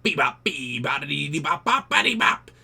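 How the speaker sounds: scat it like an angry alien. Retold or imitated. Martian answers the cowboy, scatting alien gibberish. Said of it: "and he went".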